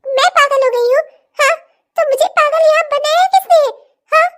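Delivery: sarcastic laughing reply; bitter laughing retort. Acted. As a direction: laugh it back in his face. Wife throws insult back.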